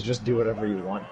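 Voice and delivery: flat, quick monotone voice. Retold or imitated. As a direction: say it like you've stopped caring. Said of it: "in a very monotone voice".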